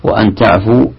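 وأن تعفوا read with "wa-an"; fatha on the hamza. Shown as a demonstration. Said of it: "بفتح". (انطق وأن تعفوا بفتح همزة وأن)

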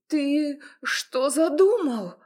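chained she-wolf stammers at her torturer; stammering in fear. A narrator's reading. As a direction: stutter it out in panic, voice jumping up. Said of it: "заикаясь, пробормотала она".

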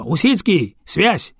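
shout. Acted. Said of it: "кричит через плечо".

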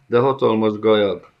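alarmed protest. Acted. The gocsomul cries out again to Gajag. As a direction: plead against the master's words.

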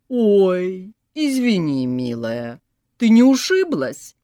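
high, loud sugary granny coo; syrupy old woman cooing. A narrator's reading. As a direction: coo falsely sweet like a scheming grandma. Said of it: "проворковала бабка".

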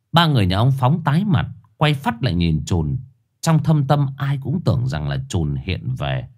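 ordinary delivery

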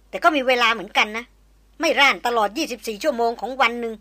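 hard, forceful threat; a cold threat to blow his brains out; menacing warning. Acted. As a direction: warn him off for good. Maria threatens Chayan after strike.

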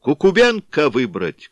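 loud, high rallying shout. A narrator's reading. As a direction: bellow the name. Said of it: "кричала часть".

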